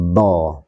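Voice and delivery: "Do" with the voice drawn out; lengthened dhad. Shown as a demonstration. Teacher showing istitolah to students, prolonged "Do". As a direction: stretch the sound of "Do". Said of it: "memanjangkan suara".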